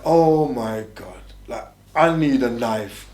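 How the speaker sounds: slow, drawn-out plea; recalled desperate plea. Retold or imitated. Inmate pleading to himself after stabbings, slow and drawn-out. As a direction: stretch each word out, as if praying.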